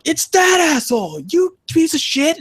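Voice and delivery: high, mock-furious insult; hammed-up raging gamer cursing a teammate; mock gamer rage. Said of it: "you look at the score, and you're like".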